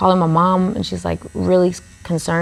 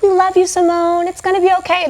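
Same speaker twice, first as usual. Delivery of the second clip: mock sympathy; 12 semitones higher than usual. Crowd consoling her mockingly.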